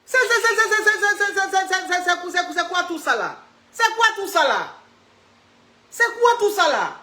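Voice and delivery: tongue-tied amazement; flustered surprise. Real, not acted. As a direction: sputter in disbelief. Stunned by being called maman.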